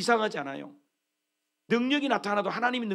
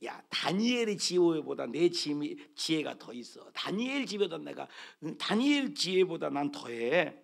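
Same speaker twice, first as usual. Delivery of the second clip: arrogant boasting; 4 semitones lower, 4 dB quieter than usual. Retold or imitated. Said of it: "아, 이러는 거예요".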